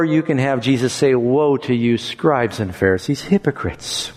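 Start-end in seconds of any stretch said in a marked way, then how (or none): 1.1-4.2 softening to a broken near-whisper; tearful. Shown as a demonstration. Jesus lamenting over the Pharisees, tearful. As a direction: grieve over them as you say it. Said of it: "with tears in his voice".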